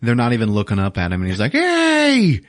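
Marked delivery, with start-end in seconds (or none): 1.5-2.4 loud, high acted shout; angry yell. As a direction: yell down to get their attention. Guard yells at apes below.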